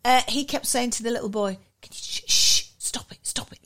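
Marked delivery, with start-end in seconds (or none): 1.8-3.6 unvoiced hushed stop it; whispered shushing. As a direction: hush a child under your breath. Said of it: "like this".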